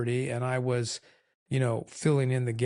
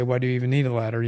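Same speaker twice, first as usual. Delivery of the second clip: brisk, louder, fast scoff; 5 dB louder, much faster than usual. Retold or imitated. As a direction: toss it off cocky and quick. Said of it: "Sometimes I would say".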